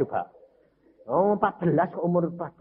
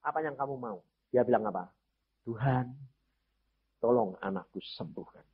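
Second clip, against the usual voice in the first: quiet exchange; 6 dB quieter than usual. Acted.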